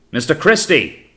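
loud, high, drawn-out hail. A narrator's reading. Officer hails the watch from the longboat, calling out. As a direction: call up from a boat to the ship. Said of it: "hailed Hornblower".

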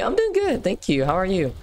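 squeaky high put-on voice for Kitty; high mock voice. Streamer voices the viewer Kitty, high and squeaky. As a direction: answer as Kitty in a tiny high voice.

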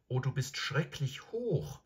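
höher, keuchend nach dem Klettern; außer Atem vom Hochklettern keuchen. Acted. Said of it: "keuchte Schaster". (Shasta nach dem misslungenen Aufsteigen, keuchend)

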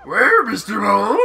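put-on whiny girl voice. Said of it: "why are you giving her that voice".

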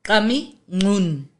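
"Kami Nun" with a click opening each word; two clicks. Shown as a demonstration. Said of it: "It's two clicks".

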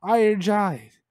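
mild, stretched-out mock yell; retold giant screams. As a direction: imitate giants calling out slowly, without full force. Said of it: "the giants are screaming at him".

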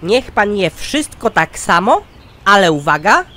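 usual speaking voice

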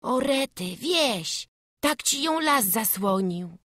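high-pitched startled exclamation; surprised boy. Acted. Runaway boy suddenly sees a village behind the forest, high surprise.

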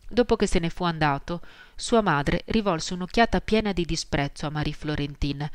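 ordinary delivery

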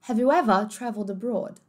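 "ever" with the final r dropped, like "evuh"; British accent. Shown as a demonstration. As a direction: say "ever" with no r at the end. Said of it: "Britânico agora". ("ever" sem o r, britânico)

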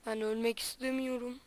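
very soft, hushed voice while hiding. Real, not acted. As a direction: keep it low so nobody hears. Hiding from enemies in game.

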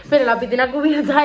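muffled behind hand; speaking through covering fingers; through hand over mouth. Real, not acted. Seen 1: Hand covers mouth while laughing, lowered by 1.4 s.

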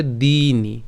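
"দিনি" with a long, stressed dee; drawn-out first syllable in "দিনি"; pressed long vowel. Shown as a demonstration. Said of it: "দীর্ঘিকার আছে একটু চাপ দিতে হবে".

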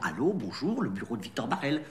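refined sixteenth-arrondissement accent; posh Paris accent. Shown as a demonstration. Boss showing the trainee how to answer, chic Parisian accent. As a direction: model a chic Paris accent without overdoing it. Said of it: "Essaie de prendre un accent plus chic".

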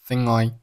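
"thin I" joined as one word; linked words. Shown as a demonstration. Teacher showing learners linking, "thin I" said joined. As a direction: run "thing" straight into "I" as "thin I". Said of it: "thing和后面的I连读".

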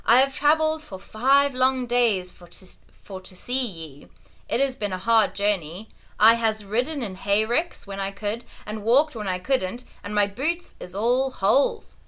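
put-on a touch of a rustic old shepherd; humble old shepherd pleading his case; old country shepherd. Old shepherd pleading before the king, lightly rustic.

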